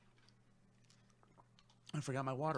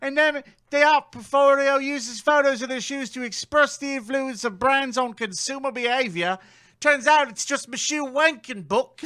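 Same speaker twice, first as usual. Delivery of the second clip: laughing; 8 semitones higher, 7 dB louder than usual. Retold or imitated. Quoting post, laughing.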